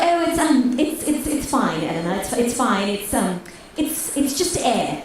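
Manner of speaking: hesitant, stammering reassurance; haltingly making light of it; awkwardly polite. Retold or imitated. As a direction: politely excuse it, searching for words. Date politely excuses her burp.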